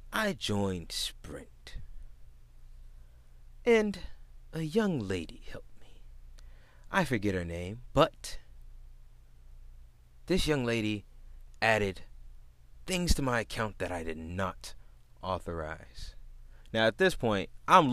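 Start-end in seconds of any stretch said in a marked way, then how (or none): 0.1-1.8 very slow, whispery cartoonish customer; odd customer impression. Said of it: "this is exactly how he talked". 3.6-16.1 lightly voiced soft, halting customer; cartoon character customer. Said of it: "why is he talking like this?".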